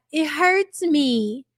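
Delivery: slow, mocking baby talk. Streamer mocking a reality star's slow baby voice. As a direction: drag it out like a whiny toddler. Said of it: "how baby-fied she sounds saying that".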